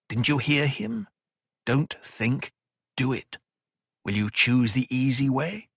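steady elder counsel; calm older mentor. Acted. Odrade counsels.

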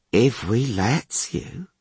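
slow, sneering and coarse; slow taunting guard. Acted. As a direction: drag it out mockingly.

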